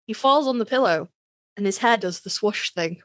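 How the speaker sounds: slowed down on purpose, with pauses; said slowly. Shown as a demonstration. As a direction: spell it out slowly for the listener. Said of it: "I will say it again slowly".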